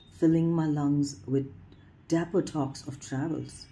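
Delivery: measured poem reading with pauses between phrases; poetry recitation. Acted. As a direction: lift each phrase opening, then let it fall. Reads second poem aloud.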